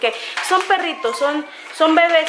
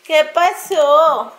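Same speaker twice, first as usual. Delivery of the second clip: put-on baby talk to puppy; 3 semitones higher, much slower than usual. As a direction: coo the questions to the pup. Cooing at puppy again. (arrullando al perrito, despacio)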